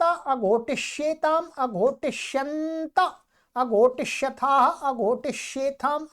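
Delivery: measured, rhythmic grammar drill; paradigm recitation. Shown as a demonstration. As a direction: recite the verb forms evenly.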